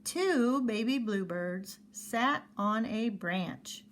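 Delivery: slow word by word reading. Shown as a demonstration. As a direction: read each word slowly. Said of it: "we don't wanna read it that slow".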